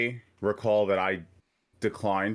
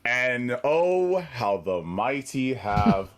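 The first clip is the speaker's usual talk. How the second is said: mock-grand gloating; 4 semitones higher, slower than usual. Gloating at rival's first loss.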